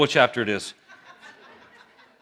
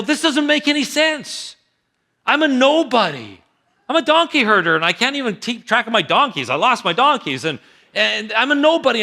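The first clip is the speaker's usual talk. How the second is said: higher, incredulous self-doubt; protesting nobody; 4 semitones higher than usual. Acted. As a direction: plead that you're too small for this. Saul protesting he's a nobody.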